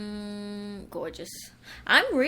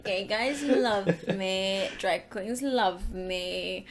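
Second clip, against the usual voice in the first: slow, smug drag queen boast; impersonating Kimora; much slower than usual. Pretend. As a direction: brag slowly like a vain diva. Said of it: "Go on, what you saying?".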